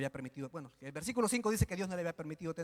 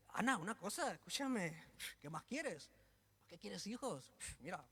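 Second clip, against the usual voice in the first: soft, much quieter mock husband; 10 dB quieter than usual. Elcana to his wife, hushed and smug. Preacher voices Elcana softly.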